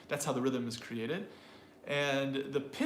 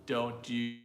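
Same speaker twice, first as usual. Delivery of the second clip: slow, flat robot monotone; 3 semitones lower, much slower than usual. Shown as a demonstration. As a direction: speak slowly like a robot. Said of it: "then I sound like a robot".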